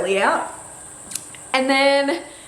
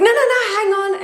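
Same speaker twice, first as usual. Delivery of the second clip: high, loud, rapid-fire protest; mildly freaked out; 13 semitones higher, 7 dB louder than usual. Retold or imitated. Partner stopping her grabbing the phone, mock freak-out. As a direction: imitate a flustered partner stopping someone. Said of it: "freaked out a little bit".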